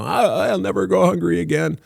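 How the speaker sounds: high, hammed-up Southern belle vow; Scarlett O'Hara. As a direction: vow it like a melodramatic heroine. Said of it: "Gone with the Wind".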